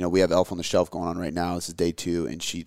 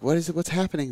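put-on much higher, puzzled child voice; imitating daughter; 9 semitones higher, faster than usual. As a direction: ask like a confused little girl, pitched high. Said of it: "she's like".

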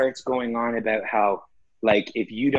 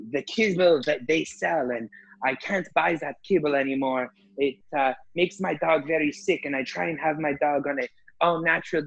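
higher, rambling lady voice; mock lady rant; 5 semitones higher than usual. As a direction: imitate her complaining about the vet, pitched up. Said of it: "she goes".

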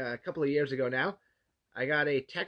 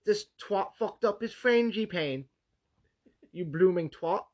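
slow, higher mock British chef rant; angry chef impression; 4 semitones higher than usual. Berating a baker who ruined his frangipane, mock British rant. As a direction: scold like a furious TV chef. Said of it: "Gordon Ramsay".

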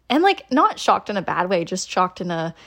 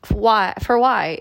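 exasperated outcry; 7 dB louder, slower than usual. Real, not acted. Exasperated rhetorical outburst.

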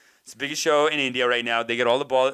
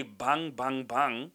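understated demo of a fake-Chinese voice; mock Chinese voice; 3 dB quieter, much slower than usual. Comic explaining the sitcom gag, lightly mocked Chinese voice. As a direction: lightly imitate their crude Chinese voice. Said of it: "that's their Chinese voice".

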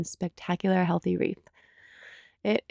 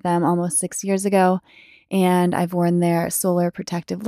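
upbeat, slightly louder podcast ad read; sponsor read; 4 dB louder than usual. Acted. Host telling listeners about a partner company, sponsor read. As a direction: endorse a favourite brand to listeners.

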